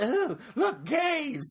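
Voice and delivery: squealing high tourist gawk; excited tourist. Retold or imitated. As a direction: gasp at the sight, very high.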